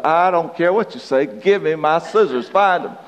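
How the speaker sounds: mildly heated, demanding wife impression; imitating an insistent wife; nagging wife. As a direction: order him about, pitch climbing. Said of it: "And so she went on".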